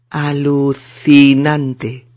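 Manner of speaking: 'alucinante' slowly, syllable by syllable; pronunciation model. Shown as a demonstration. Teacher shows learners how to say it, careful slow model. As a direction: stretch out 'alucinante' with a long 'ci'. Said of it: "vamos a aprender a decirlo".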